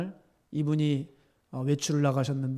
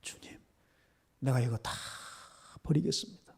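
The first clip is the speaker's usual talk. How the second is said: hushed, halting vow to God; soft, with pauses between phrases; resolved prayer; 2 semitones lower, 6 dB quieter than usual. Retold or imitated. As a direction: relive a quiet prayer of surrender. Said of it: "작정을 하면서 울면서 기도했어요".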